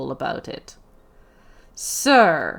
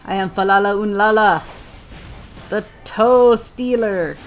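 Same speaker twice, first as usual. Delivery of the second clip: grand hero title. Pretend. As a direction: announce your heroic name. Grand self-introduction as hero.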